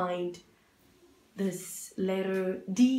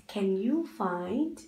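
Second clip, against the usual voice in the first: slow teacher repeat; slower than usual. Shown as a demonstration. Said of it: "repeated slowly to child".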